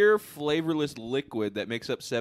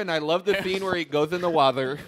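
mock nerd voice; 6 semitones higher, 7 dB louder than usual. Mocking smart-kid voice.

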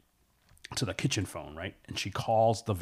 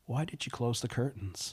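lightly voiced creepy caller; a touch of menace in a measured question; 3 semitones higher than usual. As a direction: ask it as the watching stranger, understated. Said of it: "and the caller says".

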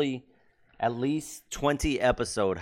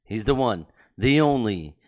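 hype announcer; 5 dB louder than usual. Acted. Hype intro of guest.

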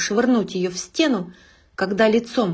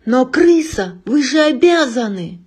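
high, loud desperate plea; desperate shout; 4 semitones higher, 6 dB louder than usual. Acted. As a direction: beg him, voice cracking high. Chef pleads desperately.

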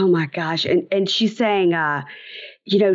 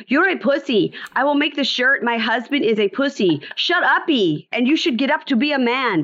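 high mocking Larissa voice; 6 semitones higher than usual. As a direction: taunt him, shrill and mocking. Larissa quoted mocking Colt.

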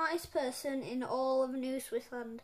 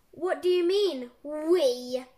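loud, affronted challenge; indignant yell; 7 dB louder, slower than usual. A narrator's reading. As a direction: throw the question back loudly. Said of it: "yelled Professor Poopy Pants".

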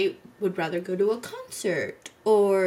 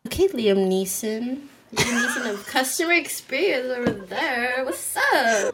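laughing tease; 3 semitones higher, 5 dB louder than usual. Real, not acted. Teasing co-host's intensity.

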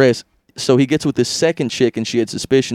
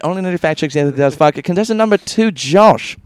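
game show host; 4 semitones higher, 4 dB louder than usual. Pretend. Announcing contestants.

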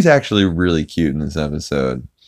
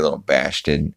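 slurred, softer cartoon put-down; lightly voiced skeleton; 3 semitones lower, 5 dB quieter than usual. Skeleton chasing off a girl, lightly voiced jeer. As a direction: lightly slur it as a character's jeer. Skeleton's line, then repeated plainly.

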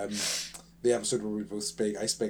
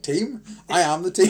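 incredulous; 7 semitones higher, 9 dB louder than usual. Retold or imitated. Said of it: "And, like".

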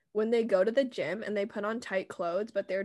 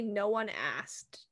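dismissive; 6 dB quieter, much slower than usual. Retold or imitated. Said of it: "when people say".

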